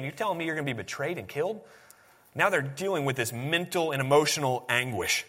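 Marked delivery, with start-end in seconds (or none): 0.0-1.6 quick, soft incredulous question; hushed, fast disbelief; disbelieving disciples. Retold or imitated. Preacher voicing the shocked disciples, quick and soft. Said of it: "they're thinking".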